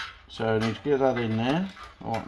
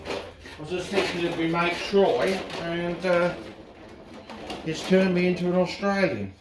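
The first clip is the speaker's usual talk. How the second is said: lightly put-on Australian accent, higher pitched; 3 semitones higher than usual. Tinkerer chatting to his mate about what's needed, playful Australian accent. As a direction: slip into a mock Australian voice. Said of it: "I don't know why I'm talking Australian again".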